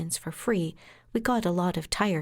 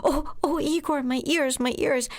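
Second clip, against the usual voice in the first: mock distress; 7 semitones higher than usual. Lawyer hamming up hurt ears to calm her client. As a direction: play-act hurt ears, pitched up. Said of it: "I realized that's the trick".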